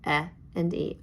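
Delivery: E as short "eh", then E as its letter name "ee"; short then long vowel. Shown as a demonstration. Teacher reviewing vowel sounds with class, short then long E. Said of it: "review short and long vowel sounds".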